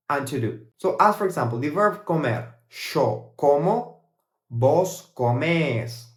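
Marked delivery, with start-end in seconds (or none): 4.5-6.1 very slow "vos comés", stressed on "més"; Argentine vos form. Shown as a demonstration. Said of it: "here in Argentina we say vos comés".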